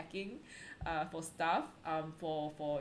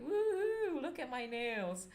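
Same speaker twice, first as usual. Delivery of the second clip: squealed, high woohoo showing off nails; playful squeal of delight at the nails; mock woohoo; 5 semitones higher, slower than usual. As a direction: pretend cheer over new nails. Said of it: "So it's like".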